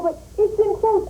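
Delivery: high, slow mock-insistent voice; imitating her friend. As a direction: stretch it out high like a stubborn friend. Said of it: "And then she'll go".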